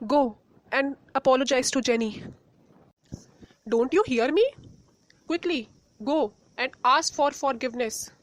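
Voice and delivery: firm scolding mother, no argument; a commanding mother's rebuke; stern order. Acted. Mother orders daughter to apologize.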